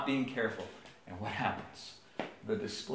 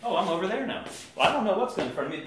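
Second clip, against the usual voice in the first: heedless toddler imitation; 6 semitones higher, faster than usual. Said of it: "she's just like".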